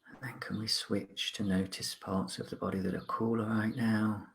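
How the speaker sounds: calm, measured mindfulness guide with long pauses; guided meditation. Acted. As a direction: gently guide listeners to notice the present, unhurried.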